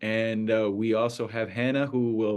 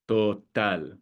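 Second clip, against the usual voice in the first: "total" with the TAL stressed; stress on final syllable. Shown as a demonstration. Teacher repeating the example for learners, "total" stressed on TAL. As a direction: land firmly on the last syllable of "total". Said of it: "it falls on the final syllable".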